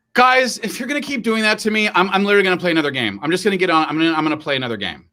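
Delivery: high, fast whiny kid voice, mock upset; imitating son complaining. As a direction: play the griping teen gamer, hammed up. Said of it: "and he'll be like".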